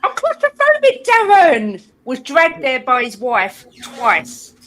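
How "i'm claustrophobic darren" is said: high mock shout. Imitating the catchphrase.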